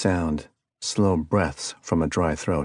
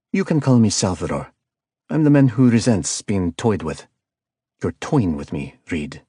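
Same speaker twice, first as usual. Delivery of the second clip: lightly voiced cold caller with a hint of South American accent; icy calm villain; 4 dB louder than usual. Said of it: "The tone was calm and icy cold".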